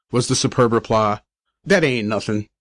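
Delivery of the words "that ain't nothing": put-on low-key street-kid bravado; lightly voiced tough little boy; small kid's boast. A narrator's reading. Youngster making light of sixteen pounds, offhand bravado.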